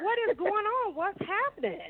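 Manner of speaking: put-on a touch of childlike alarm; mock scared children. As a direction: imitate kids anxiously asking the grown-ups. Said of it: "scared to death".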